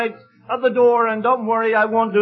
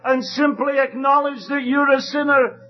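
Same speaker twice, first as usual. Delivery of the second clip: preaching at full force; 3 semitones higher than usual. Acted. Preacher urges the congregation to come to Jesus, fervent preaching. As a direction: build to a fervent revival appeal. Preaching climax and hymn lines.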